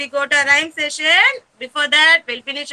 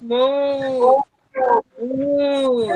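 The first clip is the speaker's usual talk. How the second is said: cow moo demo; 3 semitones lower, 3 dB quieter than usual. Shown as a demonstration. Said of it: "Like this".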